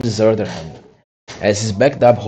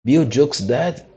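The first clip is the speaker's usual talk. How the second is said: startled; 5 semitones higher, slower than usual. Acted. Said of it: "cried the startled pirates".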